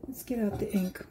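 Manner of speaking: soft whisper to herself. Real, not acted. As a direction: breathe it under your breath. Crafting, repeats the line whispered.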